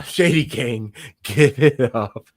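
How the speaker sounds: slow, drawn-out guest introduction; hype-man welcome, taken slowly; announcer intro. Real, not acted. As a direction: stretch the name like a ring announcer. Host announces the next guest.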